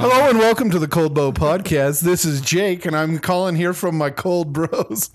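podcast intro voice. Shown as a demonstration. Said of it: "He's in work mode".

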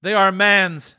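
high, grave spirit voice. Acted. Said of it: "said the spirit".

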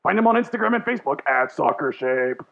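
over-the-top radio pitchman. Pretend. Host reading the sponsor spot in radio voice. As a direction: drag out the last line like a dealership ad. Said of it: "my radio voice".

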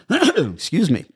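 losing her voice; throat catching, hoarse. Real, not acted. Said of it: "Losing my voice there".

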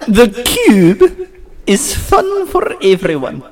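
very slow, grand voice of God; God mode. Acted. Reading the title to hushed friends, God mode. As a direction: proclaim it slowly as a mock deity. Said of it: "Okay, it's in God mode".

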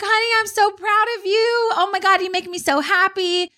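high gushing overjoyed voice; mock celebration. Mom faking joy on the phone for the other mom. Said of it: "I was like".

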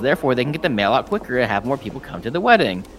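a friend mimicking Beans's old boast, mildly mocking; mocking quote. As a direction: parody his boast, lightly mocking. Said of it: "and I quote".

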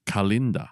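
Kalinda said as kuh-LIN-da, with a clear L; short "kuh" then LIN in Kalinda; correct pronunciation. Shown as a demonstration. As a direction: give Kalinda an L and a falling end. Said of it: "it's actually pronounced".

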